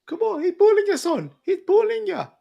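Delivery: high mocking complaint; mock whine. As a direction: squeak it out like a tattletale. Mock outrage on Usman's behalf.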